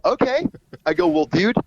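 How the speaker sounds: high, rising, taken-aback "okay"; imitated aghast reaction. Manager on the phone with reluctant singer, aghast. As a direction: act out stunned disbelief on one word. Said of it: "like, aghast".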